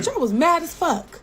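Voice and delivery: high, laughing exclamation; laughing at her own anger. Real, not acted. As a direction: blurt it out through a laugh.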